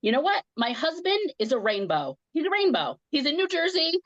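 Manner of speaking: worked-up, insistent flood of words; retold angry rant. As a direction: rant as if flipping out on the phone. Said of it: "I just got really angry".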